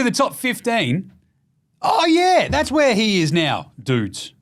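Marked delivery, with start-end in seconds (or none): 1.8-4.3 excited hype. Real, not acted. Hyping the top fifteen list.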